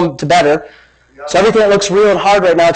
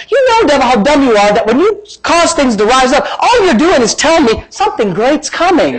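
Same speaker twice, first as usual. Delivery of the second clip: raised, scornful preacher's taunt; telling off the devil; 6 semitones higher than usual. Acted. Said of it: "I tell the devil".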